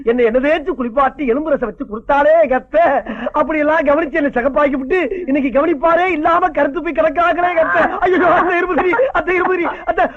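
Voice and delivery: hammed-up wail over the sick mother-in-law; mock wailing lament. Husband fake-mourns his mother-in-law for the inheritance, hammed-up wailing. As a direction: overdo the grief, calling out to her again and again.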